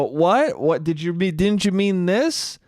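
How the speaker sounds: imitated pedantic query, lifting at the end; needling questions. Boyfriend picks at girlfriend's slip, lightly needling. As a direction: question it like a nitpicking partner. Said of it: "I've been my mother".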